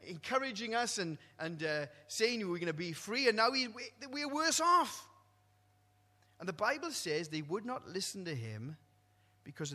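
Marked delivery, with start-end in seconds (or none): 0.0-5.1 complaining people. Retold or imitated. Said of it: "the people of Israel said".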